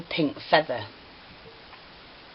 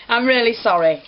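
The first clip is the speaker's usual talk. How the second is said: laughing; 6 semitones higher, 4 dB louder than usual. Real, not acted. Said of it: "don't get me laughing".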